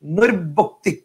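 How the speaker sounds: "নৈর্বক্তিক" in two pieces, নৈর্ব, then বক্তিক; two ব sounds. Shown as a demonstration. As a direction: break "নৈর্বক্তিক" between its two ব. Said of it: "এরপর আরেকটা ব". ("নৈর্বক্তিক" ভেঙে দুইটা ব আলাদা করে বলা)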